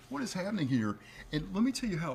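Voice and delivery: whispering, unvoiced and high; breathy whispered echo. Echoing Ashe in a whisper.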